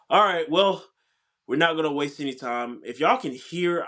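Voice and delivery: stuffy, congested voice; blocked nose. Real, not acted. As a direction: talk through a blocked nose. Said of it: "I'm very congested right now".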